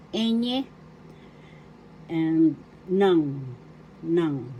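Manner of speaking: teacher modelling "enye" and "nang"; Tagalog letter names. Shown as a demonstration. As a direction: sound out "enye" and "nang" separately. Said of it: "That's how it was pronounced in Tagalog".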